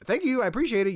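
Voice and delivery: high, sweet thankful lady; polite lady voice. Retold or imitated. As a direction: thank him in a high sugary voice. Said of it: "this first lady, uh, is just like".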